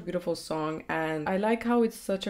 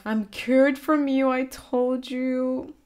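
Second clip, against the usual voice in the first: dramatic reading; 5 semitones higher, slower than usual. Acted. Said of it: "her lyrics here in English".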